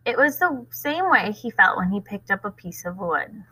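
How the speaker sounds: steady read-aloud voice with voiced characters; story narration. A narrator's reading. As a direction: read the chapter to the class. Reads next chapter aloud.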